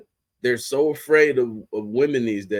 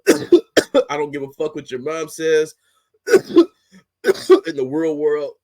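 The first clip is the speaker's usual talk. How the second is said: mock angry coach; 3 semitones higher, 7 dB louder than usual. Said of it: "Lane Kiffin cussed this kid the fuck out".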